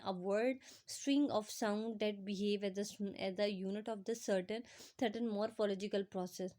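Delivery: reads the English definition word by word, very slowly; slow dictation reading. Acted. Teacher reading the textbook definition to students, slow dictation. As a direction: spell it out slowly for students to copy.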